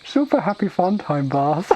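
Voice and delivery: high ogre voice, rising at the end; simple-minded ogre, proud. Acted. Ogre naming the bath when asked, proud. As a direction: announce it like a proud, dim ogre.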